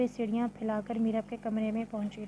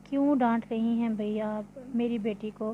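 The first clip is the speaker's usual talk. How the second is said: mock scolding. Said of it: "मसनूई गुस्से से डांटते हुए कहा".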